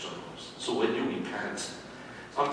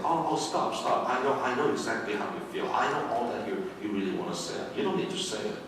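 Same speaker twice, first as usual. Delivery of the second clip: soothing. Retold or imitated. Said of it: "one of the ways that you comfort them is by saying".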